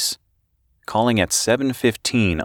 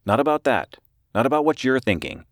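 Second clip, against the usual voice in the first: higher-pitched, nervous reporter; 7 semitones higher than usual. A narrator's reading. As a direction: open tentatively in a raised voice. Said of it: "he said nervously".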